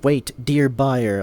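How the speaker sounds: mocking scammer. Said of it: "Like he says, "Dear buyer".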